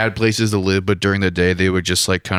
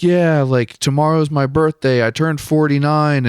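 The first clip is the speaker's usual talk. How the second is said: lifted higher, lightly voiced woman; light higher-voiced impression of her; imitating the homeless lady; 7 semitones higher than usual. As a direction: quote her in a higher voice, half-mocking. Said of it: "And she's like".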